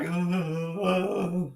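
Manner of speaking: mock frozen noise, held on and on; stuck, drawn-out uh. Streamer mimicking himself put on the spot, frozen uh. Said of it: "once you put me on the spot".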